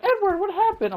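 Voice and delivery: mock-nonchalant falsetto impression; very high, airheaded girlish mimicry; Rebecca. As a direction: mimic a woman far too unbothered, in falsetto. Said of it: "Rebecca's reaction is like".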